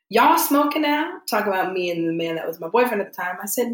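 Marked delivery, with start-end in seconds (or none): 0.1-1.2 higher, slow suspicious mom; a hint of a mother catching her kids out; mother questioning the tobacco wrapper. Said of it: "And she said".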